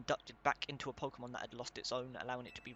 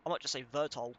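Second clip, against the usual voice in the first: normal talking voice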